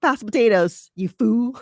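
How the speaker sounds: mock-harsh table command; rude demand. Shown as a demonstration. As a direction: snap the order like a rude brother.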